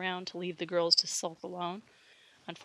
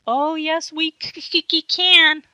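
high, loud mock stutter; mocking stammer; 9 semitones higher, 10 dB louder, slower than usual. A narrator's reading. Cindy mocks his stammer, taunting stutter. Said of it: "taunted Cindy".

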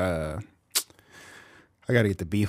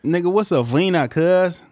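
high, louder confused challenge; mock soldier; 8 semitones higher, 6 dB louder than usual. The speaker voicing the soldier, louder mock challenge. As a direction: demand an answer.

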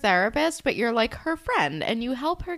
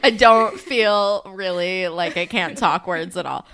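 mouth full; 4 semitones lower, 5 dB louder than usual. Real, not acted. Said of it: "I just ate a Reese's".

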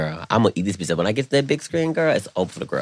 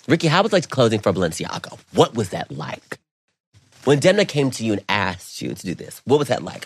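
pretend interviewer; 2 semitones higher than usual. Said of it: "I love when you talk like this".

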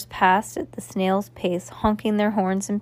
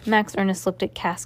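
plain reading voice

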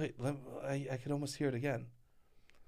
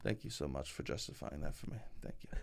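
sarcastic; 11 semitones lower, 17 dB quieter than usual. Acted. Sarcastic thanks, low soft.

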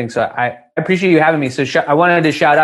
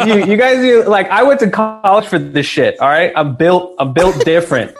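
mock cocky boast; 4 semitones higher than usual.

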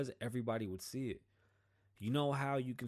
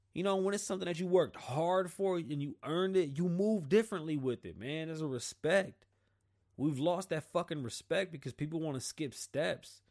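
raised, louder impassioned preaching; higher fervent sermon-like rant; heated rant; 5 semitones higher, 4 dB louder than usual. Real, not acted. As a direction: drive the point home with fire.

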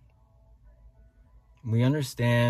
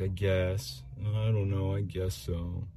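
bored mumble; slower than usual. Retold or imitated. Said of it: "instead of mumbling all the time".

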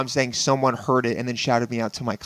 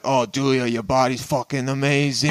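put-on Italian accent; 3 dB louder than usual. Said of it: "I'm gonna do an Italian accent".

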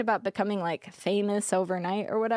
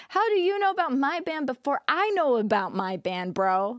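higher-pitched, incredulous acted question; indignant challenge; 5 semitones higher than usual. Streamer challenging rival over insider ban knowledge, indignant. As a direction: call out a rival in mock confrontation.

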